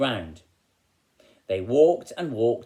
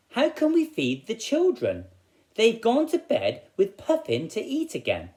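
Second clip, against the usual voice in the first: weary woodcutter; 11 semitones higher, 3 dB louder than usual. Acted. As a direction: moan it like a worn-out woodcutter who worked all day. Woodcutter worries, voiced in story.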